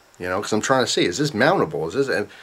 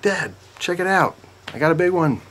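excited boast; 9 semitones higher than usual. Retold or imitated. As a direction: proudly hold up the catch to dad. Shows fish to dad at dawn.

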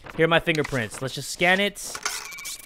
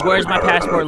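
mock entrant; 5 dB louder than usual. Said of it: "I'm tired of reading these lines".

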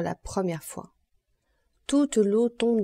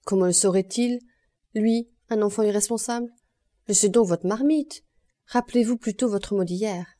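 sharp retort; 3 dB louder than usual. Acted. Madame Lepic cuts in sharply.

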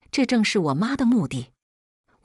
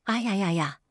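wailing cry; 4 dB quieter than usual. Acted. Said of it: "我嚎啕大哭".

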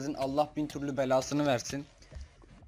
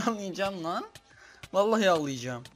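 frustrated; 4 semitones higher, 4 dB louder than usual. Real, not acted. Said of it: "çok fena uyuz oldum ya".

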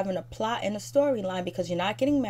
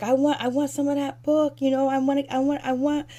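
mock eager; 6 semitones higher than usual. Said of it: "Jennifer's like".

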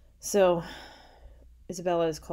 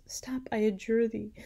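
higher, louder plea to stop; urgent cry; 7 semitones higher, 5 dB louder than usual. A narrator's reading. Hippolyta stops Isabella's oath, urgent cry. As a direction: cut in with an urgent appeal. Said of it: "cried Hippolyta".

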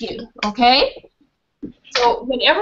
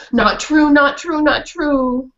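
protesting dog voice; 4 semitones higher, slower than usual. Acted.

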